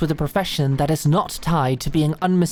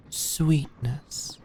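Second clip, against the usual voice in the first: teasing whisper; 2 semitones lower, 6 dB quieter than usual. Acted. Knight teasing the blushing princess, whispered. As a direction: whisper the pet name, softly teasing.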